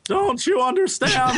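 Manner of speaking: mock-threaten in a fake Russian accent; Russian mole man. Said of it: "the mole men are clearly Russian".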